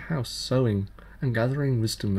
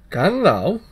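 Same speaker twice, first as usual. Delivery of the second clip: higher, louder impish challenge; changeling child voice; 7 semitones higher, 7 dB louder than usual. Acted. Fairy child challenges the tailor, higher and louder. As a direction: tease him with a cheeky dare.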